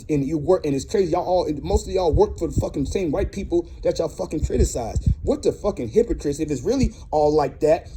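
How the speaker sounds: real indignant rant, cursing freely; fed up and fired up; mad. Real, not acted. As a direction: vent righteous anger in a driving tirade. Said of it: "and I'm mad".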